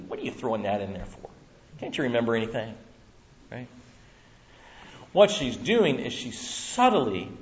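usual speaking voice

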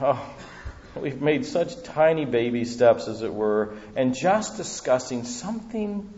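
fervent prayer. Acted. Pastor leads closing prayer.

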